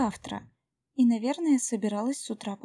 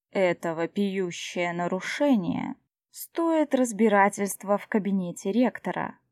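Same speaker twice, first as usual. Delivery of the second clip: icy tone; 3 dB louder than usual. Acted. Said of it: "тем же тоном продолжал Клеарн".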